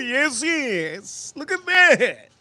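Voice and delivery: put-on cooing baby talk. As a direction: coo like talking to a puppy. Cooing over the food.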